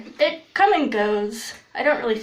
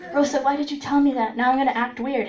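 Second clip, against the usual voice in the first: flustered friend; 2 semitones higher, faster than usual. Retold or imitated. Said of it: "this was her reaction".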